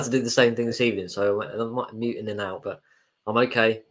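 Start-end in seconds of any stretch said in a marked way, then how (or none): 3.3-3.8 stuffy voice from a cold; blocked nose. Real, not acted. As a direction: talk through a head cold. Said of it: "I'm just a bit full of cold".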